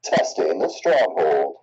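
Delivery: slow, muffled mic check. Real, not acted. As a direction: test the mic through a muffled line. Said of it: "Said your voice is muffled when you're talking".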